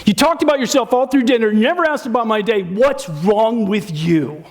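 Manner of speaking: hammed-up blaming spouse at dinner; a partner's mock attack, rising in pitch; accusing partner. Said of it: "Disaster, they said".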